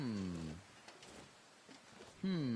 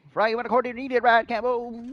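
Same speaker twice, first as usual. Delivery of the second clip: sing-song raised repeat; higher, louder repeat; 8 semitones higher than usual. Shown as a demonstration. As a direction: say it again up high and louder. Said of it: "repeats line louder".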